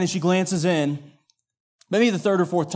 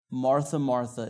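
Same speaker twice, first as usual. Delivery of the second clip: soft, low and unhurried; measured, unreactive; 4 semitones lower, 5 dB quieter than usual. Acted. Jesus answering upset Martha by name, calm and soft. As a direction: answer quietly without reacting. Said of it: "he's not fast with his words ... not gonna react".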